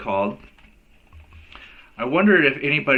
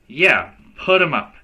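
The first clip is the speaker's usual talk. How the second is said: louder, brash dare to fight; tough challenge; 5 semitones higher, 5 dB louder than usual. A narrator's reading. Girl daring a boy to fight her, brash. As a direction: square up and dare him.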